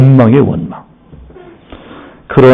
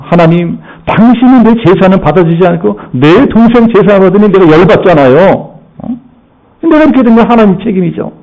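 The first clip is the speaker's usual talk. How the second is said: higher, indignant complaint to God; Cain blaming God; 5 semitones higher than usual. Acted. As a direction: bristle with resentment at God. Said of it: "하나님을 원망합니다". (하나님께 억울하다고 따지는 가인)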